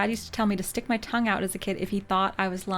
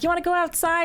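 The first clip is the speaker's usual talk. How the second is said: put-on higher, bouncy sing-song question to a little kid; higher, eager mom voice coaxing her toddler; playful invitation to toddler; 10 semitones higher, faster than usual. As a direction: make the adventure sound thrilling.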